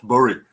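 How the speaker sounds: "Bury" said as BOO-ree, u as in put; "Bury" the local way, BOO-ree; northern Bury. Shown as a demonstration. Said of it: "That's how she talks".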